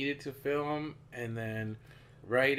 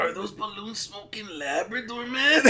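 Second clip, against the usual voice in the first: stoner voice; 7 semitones higher, 4 dB louder than usual. Retold or imitated. Continued stoner bit.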